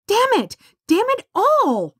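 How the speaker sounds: high, ringing cry of despair; shouting curse. A narrator's reading. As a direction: curse the chasm at full voice. Stranded girl curses at chasm.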